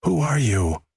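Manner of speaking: high-pitched demanding question; trembling demand. A narrator's reading. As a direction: press for an answer, pitch lifted high. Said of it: "her voice steady but trembling".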